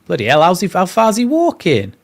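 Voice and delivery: incredulous, rising shock; surprised. Real, not acted. Reacting to long throw walk.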